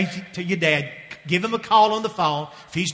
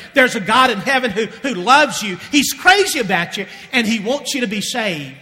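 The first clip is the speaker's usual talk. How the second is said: raised, louder, fervent declaration; impassioned preaching; 4 semitones higher, 4 dB louder than usual. Real, not acted. Preacher assures congregation of God's love, impassioned preaching. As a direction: press the point home with fervour.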